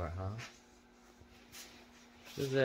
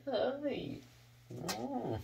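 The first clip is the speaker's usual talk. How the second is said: high greeting; 12 semitones higher than usual. Acted.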